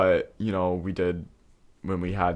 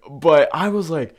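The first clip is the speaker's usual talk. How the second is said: normal talking voice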